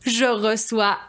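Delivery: hammed-up show opener; talk show host. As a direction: greet the audience like a bubbly TV host.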